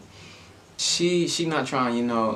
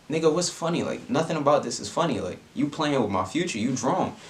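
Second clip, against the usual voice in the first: higher, exasperated retort; sharp disbelief, higher pitched; indignant; 4 semitones higher than usual. Retold or imitated. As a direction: call out her laughing, fed up. Angry reply to laughing emojis.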